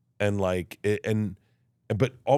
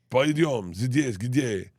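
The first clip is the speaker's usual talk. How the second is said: Russian accent; much slower than usual. Shown as a demonstration. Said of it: "voices that I do in the bit".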